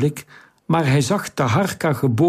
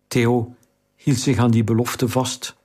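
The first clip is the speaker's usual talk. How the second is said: usual speaking voice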